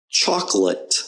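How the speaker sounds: "chocolate" as CHOK-lit; unstressed O. Shown as a demonstration. Teacher giving a practice word, "chocolate" with weak O. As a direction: say "chocolate" with the O swallowed. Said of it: "The O there is just kind of unstressed".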